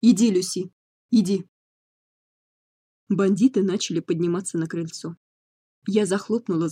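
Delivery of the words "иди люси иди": shouting. A narrator's reading. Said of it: "крикнул".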